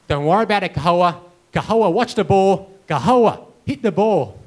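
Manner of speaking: loud, mildly urgent coach; acted coach calling out. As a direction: call out instructions like an encouraging coach. Coach calling to struggling pupil, retold.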